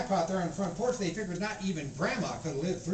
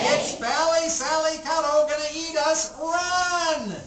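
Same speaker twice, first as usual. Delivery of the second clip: urgent warning; 7 semitones higher, 7 dB louder, slower than usual. Acted. Children warn deaf Grandma.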